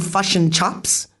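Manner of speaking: fush and chups with short vowels; broad Kiwi fush and chups; broad kiwi accent. Shown as a demonstration. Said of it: "Aussies think that we say".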